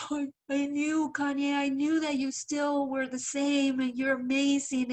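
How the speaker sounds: retold happy-crying gush; mock tearful. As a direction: lightly imitate getting choked up with admiration. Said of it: "that I started crying".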